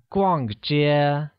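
逛 falling, 街 held high and level; slow model 逛街 with clear tones; falling then high level tone. Shown as a demonstration. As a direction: say 逛街 slowly, dropping on 逛, level on 街. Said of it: "pronounced using a falling tone on A".

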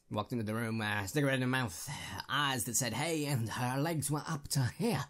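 a bad noir gangster with a hint of American Southern; mock gangster Southern. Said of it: "cross between gangster and someone trying to do an American Southern accent".

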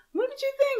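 very high sing-song "What did you think?"; squeaky quoted question; mock friend's question. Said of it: "We were like".

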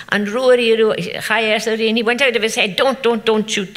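urgent calling out. Retold or imitated. Cousin calling to Rory not to shoot, urgent mock yell. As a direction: stop him before he fires.

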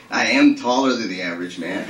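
pompous mocking boast with a laugh; mocking Ronnie. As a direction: ham up Ronnie's brag. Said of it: "make himself out to be".

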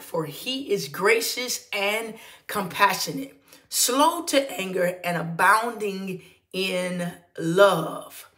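measured, slow scripture read. Acted. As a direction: read the verse with weight. Reads the scripture aloud.

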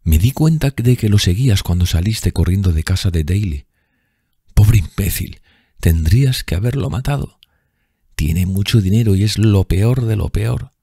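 lightly voiced bitter drunk woman; bitter bar woman. A narrator's reading. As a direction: spit contempt at him.

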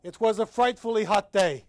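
loud, brisk reading of "It was a frightfully hot day", stress on "was"; lively dramatic reading. Shown as a demonstration. Professor performing Hemingway's narrator for the class, brisk and lively. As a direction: read it as the cheerful soldier telling it. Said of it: "let's look at this poem".

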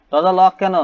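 high, loud startled question. Real, not acted. Player finding the door locked, startled. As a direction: blurt it out in surprise.

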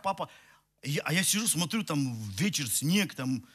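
ordinary talk, nothing marked

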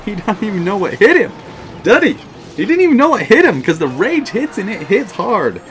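high, loud gloating laugh into boasting; gloating glee. Real, not acted. Gamer gloating to viewers about his rage hit, loud and high. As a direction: crow over the opponent who never saw it coming.

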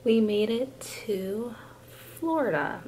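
slow, drawn-out excited reveal; excited announcement. Acted. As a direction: stretch it out like big news. Repeats arrival announcement drawn out.

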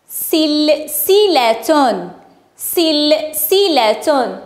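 very slow, syllable by syllable; slow sounding-out. Shown as a demonstration. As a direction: stretch the word so each sound stands out. Teacher stretches word for sound spotting.

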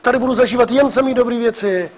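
a glad hurrah, then slowing into the dream; mock delight at finally living the dream; happy cheer. Lecturer voicing a new home owner, glad cheer. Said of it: "řekněte si".

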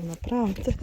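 ordinary talk

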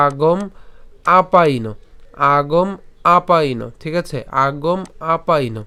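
"আগম", pause, then "আপাইনো"; split pronunciation. Shown as a demonstration. Teacher showing how it should sound, "আগম" then "আপাইনো" separately. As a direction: say "আগম" and "আপাইনো" as two distinct units. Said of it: "তাহলে উচ্চারণটা কেমন হবে".

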